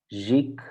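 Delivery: ziek with a longer "ie"; long vowel. Shown as a demonstration. Teacher contrasting ziek with hik, ziek held long.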